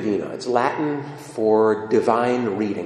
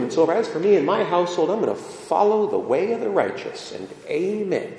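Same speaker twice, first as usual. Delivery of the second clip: psalm writer praying; 5 semitones higher than usual. Acted. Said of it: "psalm writer gets up there and he says".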